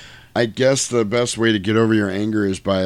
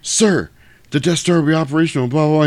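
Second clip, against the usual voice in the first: Imperial officer; 7 semitones higher, 3 dB louder, faster than usual. Retold or imitated. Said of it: "He's like".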